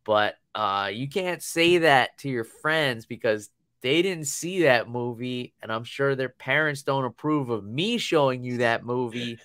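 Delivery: lightly imitated gentle parental talk; mild retold dad reprimand; dad's four-year-old speak. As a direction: explain patiently to a small child. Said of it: "I had to put this in four-year-old speak".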